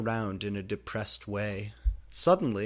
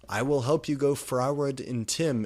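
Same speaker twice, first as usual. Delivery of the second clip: serious; 4 semitones higher, 5 dB louder than usual. Acted. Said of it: "he said seriously".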